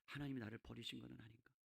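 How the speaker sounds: low and hushed; quiet, sunken brooding; forlorn doubt. Acted. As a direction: think it aloud very softly, as if abandoned. Acted thought of feeling abandoned.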